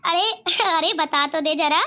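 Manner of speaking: slow start broken by a laugh; amused, laughing. Acted. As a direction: coax him to explain while laughing. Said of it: "मुझे तो बड़ी हंसी आ रही है". (हंसते हुए पूछना)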